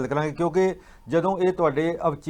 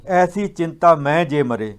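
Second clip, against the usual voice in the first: slow, louder verse recital; scripture recitation; 2 semitones higher, 5 dB louder, slower than usual. Retold or imitated. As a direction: declaim the verse in measured phrases. (Gurbani ਦਾ ਹੌਲੀ ਤੇ ਉੱਚਾ ਉਚਾਰਨ)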